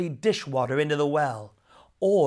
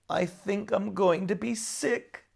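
cried; 5 semitones higher than usual. Acted. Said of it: "he cried".

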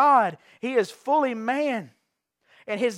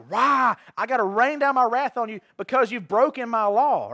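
mock angry God; 4 dB louder than usual. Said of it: "I'm gonna be God".

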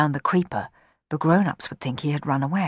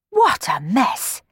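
higher, louder bossy telling-off; demanding scold; 8 semitones higher, 5 dB louder than usual. Acted. Miss Baggett scolding the sweeps, bossy and loud. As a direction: scold the sweeps like a stern housekeeper. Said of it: "she demanded".

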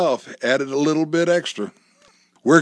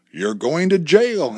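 slow, higher, wide-eyed warning; exclaiming; 5 semitones higher, 4 dB louder, slower than usual. A narrator's reading. Wife warns husband he'll be jailed, alarmed. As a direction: sell the alarm with each word. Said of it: "Amy exclaimed with her eyes wide".

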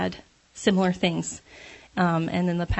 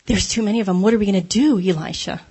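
panicked servant; 5 dB louder, faster than usual. Acted. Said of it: "Elisha's servant panics, freaks out".

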